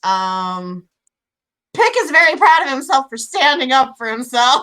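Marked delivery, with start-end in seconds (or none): 1.8-4.6 loud, high, laughing delight; laughing triumph. Real, not acted. Player proud of Pick standing up for himself, laughing triumph. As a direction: burst out proudly through laughter. Player cheers her character's small victory.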